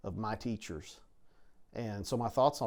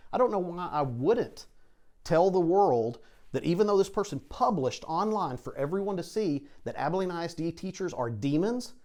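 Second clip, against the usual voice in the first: heated indignation; 5 semitones higher, 4 dB louder than usual. Real, not acted. Principal heatedly defends his teachers.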